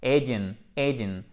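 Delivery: "Asian" as the bare tail "AY-dyun", falling; word-ending drill. Shown as a demonstration. Teacher practising the end of the word, "Asian" as "AY-dyun". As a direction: say "Asian" as "AY-dyun", stress up front. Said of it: "tout le reste du mot qui est à droite".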